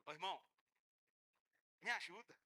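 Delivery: a humble member begging a brother; timid plea for help. Acted. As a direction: ask meekly, almost shy.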